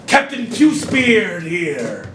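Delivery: low, slow captain's introduction; pirate captain. Pretend. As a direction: announce yourself like a pirate captain.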